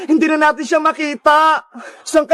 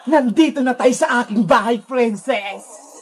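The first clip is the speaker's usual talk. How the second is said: lower-pitched captor voice; Sadako villain voice; 3 semitones lower than usual. Acted. Sadako welcoming the captive Princess home, low and menacing.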